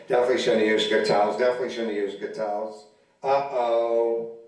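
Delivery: lightly voiced, fast, flat repetition of a worried mantra; Rain Man impression. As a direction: mutter the line over and over like Rain Man. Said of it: "walking around like Rain Man".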